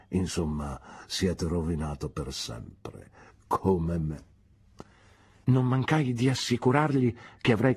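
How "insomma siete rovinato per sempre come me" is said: lower, softer, slow; a touch of mock despair; gloomy Micawber. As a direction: let it sink into self-pity.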